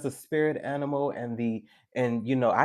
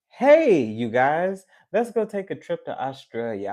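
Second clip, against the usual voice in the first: high "Hey", then settling; mock-eager holiday suggestion; mock enthusiasm; 4 semitones higher, 5 dB louder than usual. Imitating someone proposing an Australia trip, mock enthusiasm.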